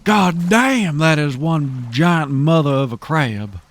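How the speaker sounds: loud, high astonished exclamation; amazed. Real, not acted. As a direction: gasp at the giant catch. Sees a huge crab.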